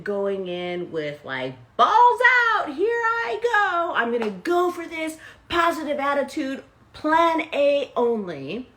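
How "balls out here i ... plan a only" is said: high, loud all-out hype; gung-ho battle cry. Acted. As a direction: shout it like you're charging in. Acting out an all-in attitude.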